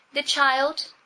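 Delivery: high, loud hysterical cry. A narrator's reading. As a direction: break off sobbing to cry out. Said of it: "Cousin Bet interrupted her hysterics".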